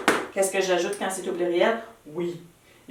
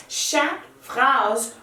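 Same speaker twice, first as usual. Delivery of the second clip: "Chaque phrase" slowed and emphasized; stress on "Chaque phrase"; 5 semitones higher, much slower than usual. Shown as a demonstration. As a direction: lean on "Chaque phrase" to insist.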